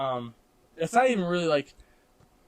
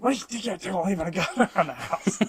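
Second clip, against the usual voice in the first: higher, imitated grandma scolding, breaking into laughter; mock mad grandma; 5 semitones higher, 3 dB louder than usual. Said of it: "she got mad".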